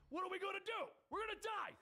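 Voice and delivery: high, loud panicked shout. Acted. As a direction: scream it in terror. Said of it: "Slayback shouts".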